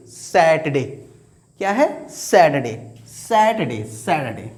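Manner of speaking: सैटरडे repeated as sat-day, r silent; drill repetition. Shown as a demonstration. Teacher drills सैटरडे so students remember it. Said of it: "correct pronunciation".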